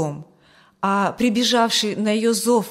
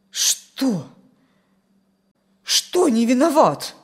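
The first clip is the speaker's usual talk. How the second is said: suddenly stern; 3 semitones higher, 5 dB louder, slower than usual. A narrator's reading. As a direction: demand an explanation sharply. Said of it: "Вмиг посуровила она". (сурово переспрашивает)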